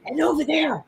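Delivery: Ted Cruz impression. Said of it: "Here's my reenactment of Ted Cruz".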